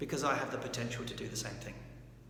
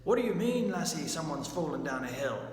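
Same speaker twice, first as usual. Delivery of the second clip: hammed-up incredulous question, starting much higher and louder; stilted mock surprise; 4 semitones higher, 4 dB louder than usual. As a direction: play a stagey TV character gasping at the news. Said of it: "the character comes up and says".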